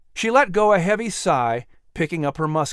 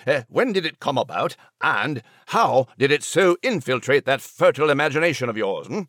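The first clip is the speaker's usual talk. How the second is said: courtly French interviewer; French-accented host. Acted. Nigel interviews author Jenny, French accent.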